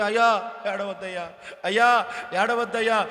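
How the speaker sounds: acted comforting, hushed and low; gentle consoling. Family consoling weeping Jacob.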